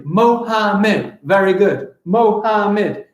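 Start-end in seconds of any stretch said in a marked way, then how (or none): 0.0-1.2 higher, evenly split "Mohammed" in three beats; syllable by syllable. Shown as a demonstration. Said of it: "I have three". 2.0-3.1 higher, evenly split "Mohammed" in three beats; syllable by syllable. Shown as a demonstration. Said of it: "I have three".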